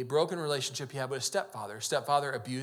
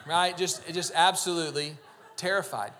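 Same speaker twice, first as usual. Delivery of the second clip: laughing loudly and higher at his own fright; 3 semitones higher, 7 dB louder than usual. Real, not acted. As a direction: laugh it out, much louder and higher.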